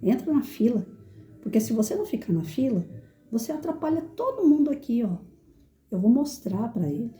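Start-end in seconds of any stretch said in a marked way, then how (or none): 0.0-5.2 put-on calm, measured instruction to a child; even, patient teacher's request; controlled tone. Shown as a demonstration. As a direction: correct a child without raising your voice. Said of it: "com o meu tom de voz, sem sair do ritmo".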